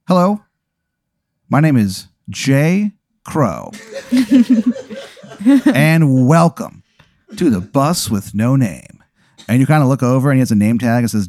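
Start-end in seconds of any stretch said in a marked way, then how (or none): 0.1-9.0 high, slow, laughing bus driver; Jay Crow voice. Acted. The pirate bus driver introducing himself, high and slow with laughs. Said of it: "he goes".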